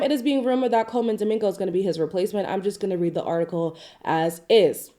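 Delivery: blocked nose, nasal sick voice; nasally voice. Real, not acted. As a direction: talk through a stuffy nose. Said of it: "Sorry about my nasally voice".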